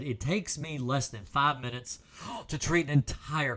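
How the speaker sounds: talking through hiccups. Real, not acted. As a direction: hiccup mid-sentence while explaining. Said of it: "Sorry, I got the hiccups".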